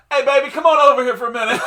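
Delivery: put-on loud, high, fast drunken come-on while laughing; a drunk friend calling the waitress over; drunk pickup line. Drunk friend hollering to the waitress, high and fast. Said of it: "Moonhorse leans back in his seat and just goes".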